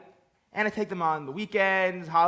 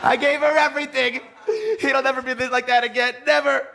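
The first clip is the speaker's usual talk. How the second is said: getting emotional; 3 semitones higher than usual. Acted. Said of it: "I didn't mean to get emotional".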